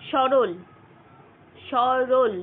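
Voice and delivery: সরল said loud and slow, each অ sound drawn out clearly; teacher sounds out সরল twice, hitting the অ; demo pronunciation. Shown as a demonstration. Teacher demonstrating the অ in সরল to students, loud and deliberate. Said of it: "অ এর কিন্তু একটা প্রভাব".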